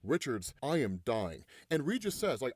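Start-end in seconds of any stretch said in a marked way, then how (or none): 0.0-1.4 low, grave villain's demand; lightly voiced proud villain, pitched down; Doctor Doom. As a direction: state it low and solemn. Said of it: "And Doom says".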